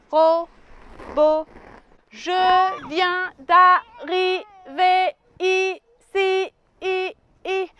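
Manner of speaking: slow stiff robot voice. Acted. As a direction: speak slowly like a little robot. Robot character speaking.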